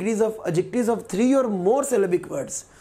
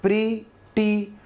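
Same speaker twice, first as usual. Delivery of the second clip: प्रीटी said very slowly as प्री-टी; slow syllable split; much slower than usual. Shown as a demonstration. Teacher showing students the two syllables, very slowly. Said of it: "तो दो syllable है".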